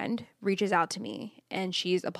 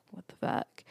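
whispered; 9 dB quieter than usual. Retold or imitated. Boyfriend's stunned reaction retold.

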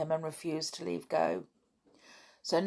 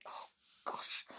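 shivering; 15 dB quieter than usual. Acted. Child complains of the cold.

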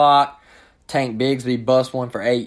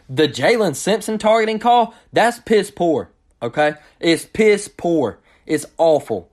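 disgusted rant; 5 semitones higher than usual. Real, not acted. Blasting a targeting call.

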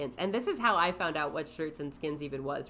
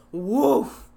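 imitated woof; 4 semitones higher, 10 dB louder than usual. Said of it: "four guys in unison all going".

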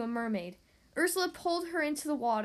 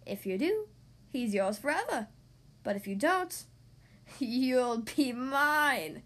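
sea witch voice; slower than usual. Acted. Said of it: "said Ursula".

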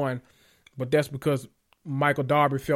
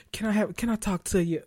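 put-on baby doll voice; 5 semitones higher, 3 dB quieter than usual. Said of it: "that little baby doll voice".

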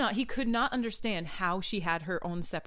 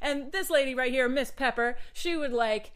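loudspeaker announcement; 3 semitones higher than usual. Retold or imitated. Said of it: "I'm doing it like I'm talking into a radio right now".

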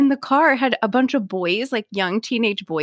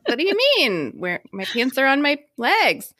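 higher, puzzled protest; retold bafflement; 6 semitones higher than usual. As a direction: act out mild indignant confusion. Retelling her baffled reply to neighbour.

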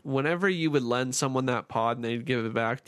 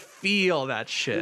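mock sensual; much slower than usual. Mock sensual, slow, laughing.

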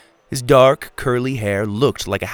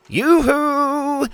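high, sing-song whiny yoo-hoo; loud whiny call. A narrator's reading. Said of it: "came a loud, whiny voice".

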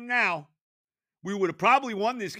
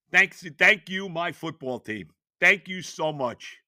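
1 sarcastic thanks; 3 semitones lower than usual. Real, not acted.

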